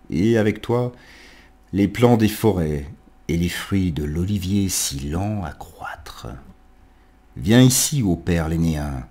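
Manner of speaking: declaimed verse with lifted calls and pauses; poetic invocation. Acted. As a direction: recite it as an address to a god, phrase by phrase. Lit une invocation de Virgile. (invocation poétique déclamée, phrasé posé)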